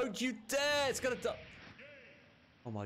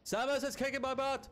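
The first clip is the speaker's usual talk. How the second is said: frustrated yell; 10 semitones higher, faster than usual. Real, not acted. Gamer losing the fight yells at the screen in dismay. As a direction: wail it at the screen.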